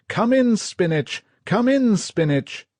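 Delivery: radio operator calling for contact; urgent radio call. Acted. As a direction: keep calling into the set.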